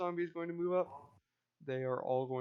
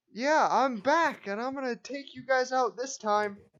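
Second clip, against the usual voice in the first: very high, very loud, shrill, mocking monster yell; 11 semitones higher, 10 dB louder than usual. A game master voices the flail snail taunting the players: flail snail yelling a taunt. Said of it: "He's gonna yell".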